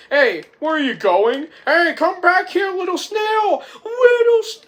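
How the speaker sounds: put-on high, loud kid yelling after someone; kid calling out. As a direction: shriek after it like an upset kid. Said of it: "and the kid says".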